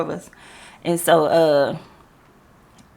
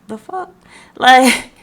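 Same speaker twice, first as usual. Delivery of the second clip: stunned disbelief; 4 semitones higher, 7 dB louder, slower than usual. Retold or imitated. Reacting to coworker's victim-blaming.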